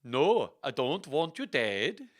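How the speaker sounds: slow, lilting Swedish lady; drawn-out Swedish-accented refusal. Acted. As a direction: protest in a hammy Swedish accent. Lady Anne's acted Swedish reply.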